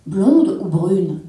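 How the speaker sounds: loud, slow offer; drawn-out "Blonde ou brune?" offered loud; husband's offer. Acted. Husband offering his wife a beer under the pergola, slow and loud.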